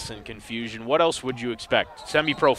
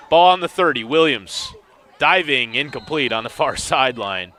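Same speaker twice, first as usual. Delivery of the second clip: quicker, louder play call; live play-by-play; 4 dB louder than usual. Real, not acted. Announcer calling the pass to listeners: live play-by-play. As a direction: call the action as it happens.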